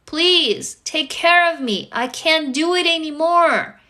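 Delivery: slow, drawn-out begging; pleading. Acted. Hurting body begging to be heard, pleading. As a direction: plead slowly, a pause after each please, building in urgency.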